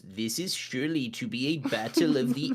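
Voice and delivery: lightly voiced over-enunciating little creature; a hint of a fussy little alien narrating; Dende voice. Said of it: "and he goes".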